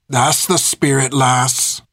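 plain reading voice

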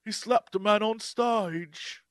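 slow bad British accent; Mark. Host as hero telling a slap story, bad British accent. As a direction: draw it out in hammed-up British. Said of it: "expect Mark to be like".

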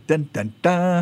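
sung "dun-dun-dun" suspense cue; mock dramatic sting. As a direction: voice a playful shock-reveal jingle. Mock sting after a bold claim.

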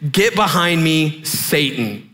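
slow, measured command, dropping at the end; Jesus. Retold or imitated. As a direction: deliver a grave, restrained rebuke. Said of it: "Jesus turned to Peter and said".

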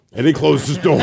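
ordinary delivery

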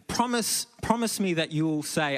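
high, urgent begging; pleading. Retold or imitated. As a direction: beg him to promise. Drunk lady pleading, grabbing hand.

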